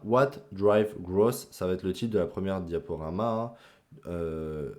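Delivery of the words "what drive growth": slow, deliberate English title in a heavy French accent; mock-proud French-accented English. Shown as a demonstration. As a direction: spell out the English words slowly, French accent and all. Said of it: "j'ai un très bon accent anglais".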